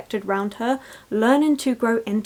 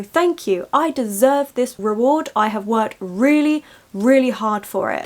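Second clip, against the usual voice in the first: confident thanks; 3 dB louder than usual. Retold or imitated. Barbie accepting an award, proud and assured. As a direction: own it, you earned this award. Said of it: "the Barbies stand up and go".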